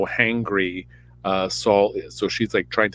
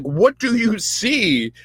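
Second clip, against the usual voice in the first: 1 Saul asking; 10 semitones higher, slower than usual. Retold or imitated. Saul voiced asking the witch.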